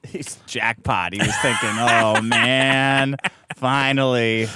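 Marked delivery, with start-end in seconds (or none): 1.7-4.4 imagined inner voice. Retold or imitated. Host voices the man's secret thought, low mock relish. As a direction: drop low, as if privately relishing it.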